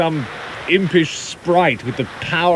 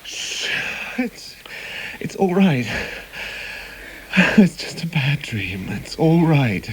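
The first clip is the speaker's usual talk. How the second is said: soft, slow reassurance; soothing; 3 dB quieter than usual. Acted. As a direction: hush her gently back to calm. Husband soothes wife after nightmare.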